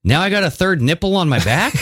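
giggling disbelief; laughing. Real, not acted. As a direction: crack up while saying it. Joking about mosquito bites.

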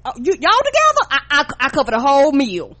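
mock nervous appeasing. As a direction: grovel to calm the whole group. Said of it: "mock nervous appeasing".

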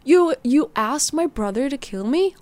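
slow, taunting villain call; menacing villain. Acted. Villain calling out.

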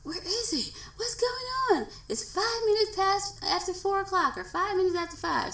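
mock panic over a late pickup; impatient worrying self. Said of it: "I'm usually like".

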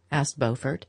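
plain reading voice

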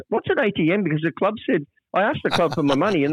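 high, naive imitated voice; baffled Longy. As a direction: ask it completely innocent. Longy repeats his question.

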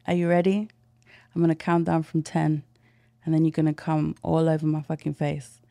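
loud, slow dominant countdown; commanding countdown. Shown as a demonstration. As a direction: count down like you're in charge. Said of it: "do the countdown part".

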